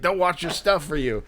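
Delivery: high, emphatic dude voice; intense Philly dude. Retold or imitated. Collector advising two fans in line, emphatic high dude. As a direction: preach it as the in-your-face guy. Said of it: "the impression that I was doing of him".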